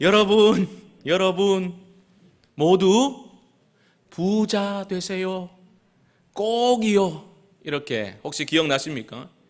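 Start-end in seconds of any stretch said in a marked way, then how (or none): 0.0-7.3 sweet, cute, earnest, pleading tone, very slow. Imitating a top actress in an ad calling out: imitating a cute earnest call. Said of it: "그 귀여운 목소리로 간절하게 소리를 칩니다".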